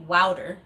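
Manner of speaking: wouter with an OW vowel, WOW-ter; Southern wouter, WOW-ter. Shown as a demonstration. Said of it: "if you are from the South, you would say".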